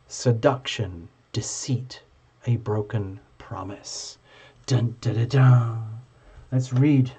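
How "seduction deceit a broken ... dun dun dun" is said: mock ominous. Dramatic reading of card meaning.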